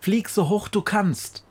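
calling out. A narrator's reading. Witch Befana urges the crow upward, calling high. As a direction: call it over the wind. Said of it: "ruft sie".

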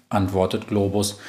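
usual speaking voice

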